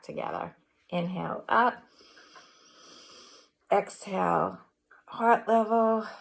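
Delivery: measured breathing cues with long pauses; guided breathing meditation. Real, not acted. Yoga teacher guiding students through inhale and exhale, measured meditation voice. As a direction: lead the breaths, leaving space after each cue.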